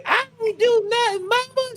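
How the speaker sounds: put-on very high whiny child voice; mock kid voice. Son protesting to his mother, high whiny kid voice. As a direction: whine like a little kid accused. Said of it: "He was like".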